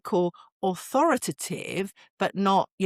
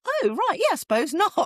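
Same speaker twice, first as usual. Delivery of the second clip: dawning realisation; 12 semitones higher than usual. Retold or imitated. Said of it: "looked at him and thought".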